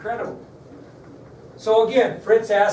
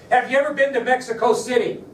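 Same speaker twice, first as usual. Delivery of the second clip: louder, higher pushy question; agent pressing hard; 6 semitones higher, 5 dB louder than usual. Retold or imitated. Nervous agent pressing Oswald, loud and high. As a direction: fire the question at him.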